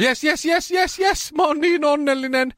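high thrilled cheering of yes; wife over the moon, squealing way up high; excited shouting. Retold or imitated. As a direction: cheer like the wife overjoyed at the show. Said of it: "rupeaa huutamaan".

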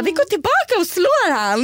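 high-pitched, fired-up imitation; mock battle cry. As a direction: imitate a friend eager to fight. Girlfriend's fighting words acted out. (härmar stridslysten tjejkompis med ljus röst)

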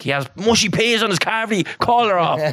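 high put-on voice, mocking a bride; mocking high voice over mushy peas; mock fiancee complaint. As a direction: whine it like a fussy bride-to-be. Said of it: "And be like".

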